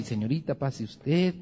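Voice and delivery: soft, courteous invitation; a hint of a gallant suitor; gallant boyfriend. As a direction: hold the door for her gently.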